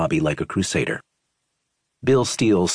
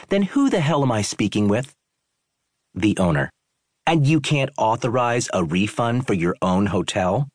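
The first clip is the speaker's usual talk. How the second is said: incredulous guest, higher pitch; angry tourist; 4 semitones higher than usual. Acted. Tourist questions the owner's authority, incredulous and higher. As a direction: scoff at who you are talking to.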